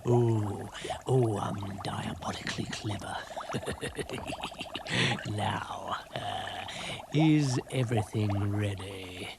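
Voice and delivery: plain reading voice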